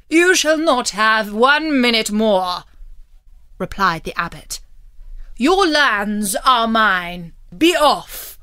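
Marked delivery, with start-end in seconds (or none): 0.1-2.6 loud, hard refusal; cold refusal. Acted. Abbot refusing the kneeling knight more time, loud and hard. 5.4-8.4 gloating dismissal. Acted. Abbot claiming the knight's lands, loud and gloating.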